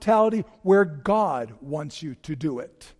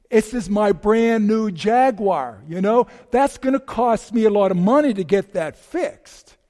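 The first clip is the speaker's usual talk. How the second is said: mild mock anger; 2 semitones higher, 5 dB louder than usual. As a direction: act out an irate driver, understated. Furious driver over damaged car.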